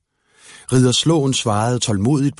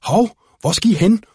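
higher, louder call; shouting after them; 9 semitones higher, 3 dB louder than usual. Acted. Slåen shouts after the children, higher and louder. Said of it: "råbte Slåen".

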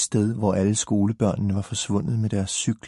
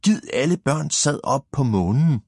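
mock teacher yell; 5 semitones higher than usual. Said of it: "råber han også".

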